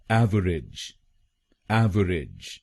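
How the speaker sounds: एवरेज with the weight on एव; stress on first syllable. Shown as a demonstration. Teacher stresses the first syllable for students. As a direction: lean on एव in एवरेज. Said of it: "पहले शब्दांश पर जोर डालना है".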